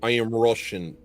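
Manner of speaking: Russian accent. Shown as a demonstration. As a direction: play a bleak, lonely Russian, dragging the words. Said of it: "Do a Russian accent".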